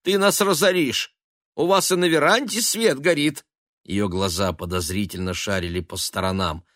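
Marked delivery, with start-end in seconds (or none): 0.0-3.4 high, loud nagging complaint; scold, exasperated; irritated. A narrator's reading. Mother scolding her sons about the lights. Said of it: "сказала она раздражённо".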